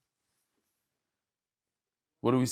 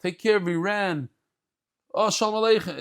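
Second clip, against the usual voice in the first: higher, louder, excited welcome; host greets Eliyahu Hanavi, eager and a bit louder; eager greeting; 5 semitones higher, 4 dB louder than usual. Retold or imitated. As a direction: greet the guest all worked up. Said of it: "He says".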